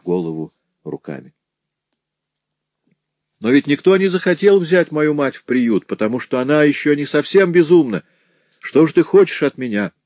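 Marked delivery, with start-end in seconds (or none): 3.4-9.9 high, plaintive and whining; whining, tearful. A narrator's reading. Bedridden Madeleine answering her husband in a tearful whine. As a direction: whimper it like a sick wife pleading. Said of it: "жалобно спросила Мадлен плаксивым, ноющим голосом".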